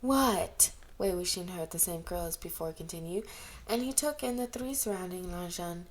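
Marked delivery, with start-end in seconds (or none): 0.0-0.7 surprised. A narrator's reading. Surprised exclamation.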